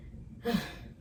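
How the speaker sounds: short unvoiced exhale; breathless sigh. Real, not acted. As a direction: catch your breath with a sigh. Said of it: "I just got out of breath".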